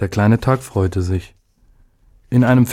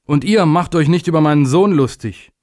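raised-pitch, mildly venomous scolding; venomous warning; 7 semitones higher, 3 dB louder than usual. A narrator's reading. Father to the assembled days, venomous warning. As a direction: warn them off sharply, pitch up. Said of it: "rief er giftig".

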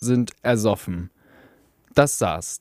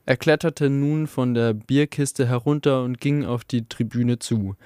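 usual speaking voice

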